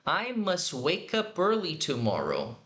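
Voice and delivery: slow, careful model sentence; slow teacher demo. Shown as a demonstration. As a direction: say each word slowly and clearly. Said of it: "juntando aqui na pronúncia".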